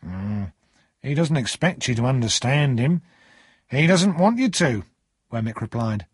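lightly voiced clerk, slow and emphatic; lightly acted, measured clerk's voice; Wemmick. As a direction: explain in a deliberate character voice.

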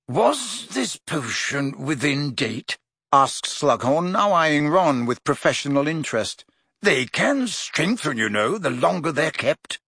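slow, interested professor voice; old professor. Acted. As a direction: ponder it expertly. Slughorn voiced.

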